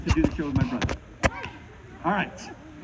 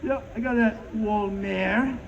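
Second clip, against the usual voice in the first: mock posh French; 3 semitones higher than usual. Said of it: "That's like me going".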